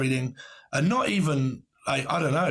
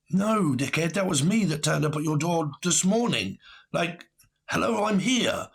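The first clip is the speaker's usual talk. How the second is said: exasperated retort; 3 semitones higher than usual. Retold or imitated. Speaker retells exasperated reply.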